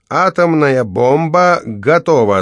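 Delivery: a hint of a grim bomber pilot; grim determination. A narrator's reading. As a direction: announce the bomb with dark resolve. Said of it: "с мрачной решимостью сообщила мать".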